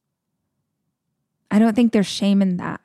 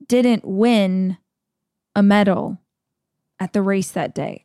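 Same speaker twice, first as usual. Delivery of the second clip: slow dramatic narration. Retold or imitated. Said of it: "and he's like".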